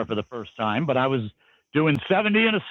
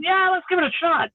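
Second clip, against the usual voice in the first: sarcastic; 11 semitones higher than usual. Real, not acted. Sarcasm about communism.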